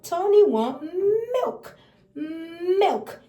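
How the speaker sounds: put-on slow, sing-song baby talk; baby talk demo. Shown as a demonstration. Parent teaching Tony the word milk, sing-song. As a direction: coo the word milk to a toddler. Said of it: "let me show you".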